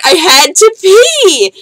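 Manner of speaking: high, slow, loud tearful wail; crying yell. Retold or imitated. To her friend on the subway platform, a high crying yell. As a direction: wail it out through tears, half yelling. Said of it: "I started crying".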